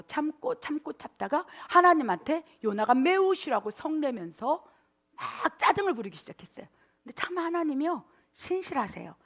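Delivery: usual speaking voice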